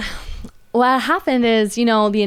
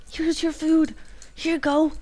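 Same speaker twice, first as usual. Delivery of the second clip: put-on high, sweet voice for kids; higher, coaxing retelling; retold gentle offer; 8 semitones higher, 4 dB quieter than usual. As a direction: hand food over to an upset child. Consoling crying kids with food.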